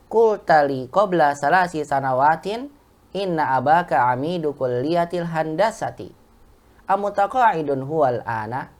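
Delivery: slow, careful reading with a pause at every comma and full stop; teacher modelling Arabic reading intonation for the class; model reading with intonation. Shown as a demonstration. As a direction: read it slowly, stopping your breath at each comma and full stop. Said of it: "Begitu ya".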